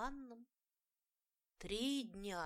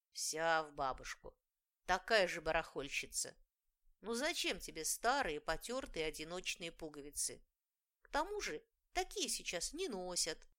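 grumbling; 4 dB louder than usual. Acted. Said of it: "ворчала старшая фея".

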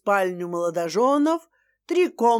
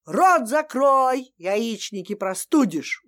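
угрожающе. Acted. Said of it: "угрожающе произнесла свекровь".

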